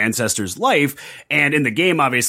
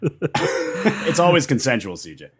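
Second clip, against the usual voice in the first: a hint of a sultry voice; sultry narrator; slower than usual. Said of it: "I'll provide my sultry voice".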